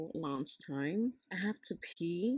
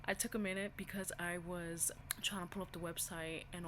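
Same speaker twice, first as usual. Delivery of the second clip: nervous whisper; 6 dB quieter than usual. Real, not acted. Nervous after launch.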